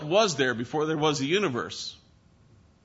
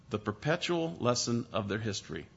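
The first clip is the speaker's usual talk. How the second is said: repeated much softer and lower, perpetual leaned on; soft echo; 3 semitones lower, 8 dB quieter than usual. Shown as a demonstration. Preacher repeating the phrase to the congregation, softly. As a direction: let it sink in quietly.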